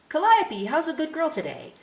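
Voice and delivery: put-on high, loud child calling a greeting; young boy. A narrator's reading. Boy greets the police horse at the school gate, young boy's high call. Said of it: "A young boy approaches".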